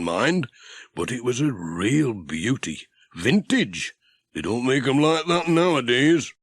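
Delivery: put-on a chatty mechanic keen on an old bus; Ted. Ted character voice.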